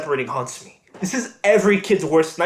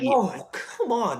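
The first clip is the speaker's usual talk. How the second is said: scoffing laugh; 5 semitones higher, 4 dB quieter, much slower than usual. Acted. Son scoffs at father's excuse.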